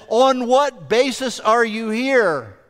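slow, mildly exasperated demand, spaced out; frustrated angel. Retold or imitated. Supervising angel questioning the thief, acted frustration. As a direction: act out drawn-out, mock frustration. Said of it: "in frustration".

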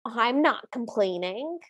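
slow, lightly snide retort; a touch of snideness, taken slowly; snide stepsister. Retold or imitated. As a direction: imitate Bertha's smug dig, drawn out. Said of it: "snidely looks at Cinderella and goes".

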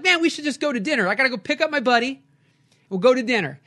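high, fast and eager; eager invitation. Retold or imitated. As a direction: rush the invite, all fired up. Inviting driver to dinner eagerly.

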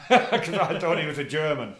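laughing through the words; chuckling at his own mistake. Real, not acted. Telling the interviewer a funny story, laughing.

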